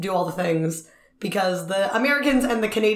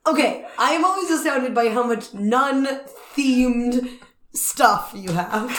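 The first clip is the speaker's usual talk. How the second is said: slow, deliberate and careful; careful slow rephrase; 3 semitones higher, slower than usual. Acted. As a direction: say it slowly so it isn't creepy. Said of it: "Not in a creepy way".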